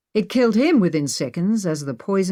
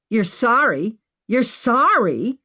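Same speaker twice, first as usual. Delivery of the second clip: incredulous high shout; 6 semitones higher, 4 dB louder, slower than usual. A narrator's reading. Maggie shouting at the man who apologized. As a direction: throw his words back at him. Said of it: "Maggie shouted".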